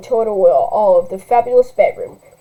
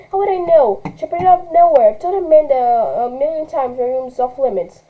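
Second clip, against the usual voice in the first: put-on higher, whining spoiled teen; whiny rich girl; 4 semitones higher than usual. Spoiled girl blaming her mother, lightly whiny. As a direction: complain like a spoiled brat.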